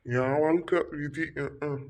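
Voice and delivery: slow, mock-sorrowful moan; self-pitying lament. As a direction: bemoan your fate, dragging the words. Husband bemoans his fate. (தலைவிதியை நொந்து புலம்புவது)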